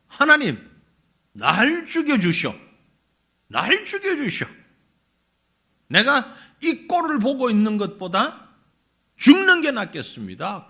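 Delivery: acted angry plea; petulant prophet demanding death, bursts of force. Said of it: "요나의 화의 정도는". (화가 나서 하소연하듯)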